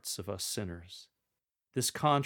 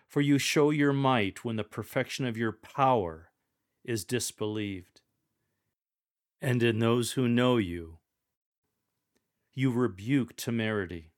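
forceful and louder; 5 dB louder than usual. Shown as a demonstration. Lector reading the rebuke line, forceful and loud. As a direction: proclaim it with force. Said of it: "Use a forceful tone of voice for this entire sentence".

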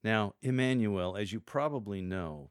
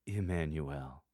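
Emmanuel firmly declared after the pause; 4 semitones lower, slower than usual. Shown as a demonstration. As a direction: announce the answer. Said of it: "Then declare".

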